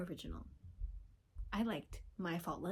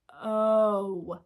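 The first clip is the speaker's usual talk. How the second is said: loud excited oh; 11 dB louder than usual. Retold or imitated. Reacting to seeing the edit.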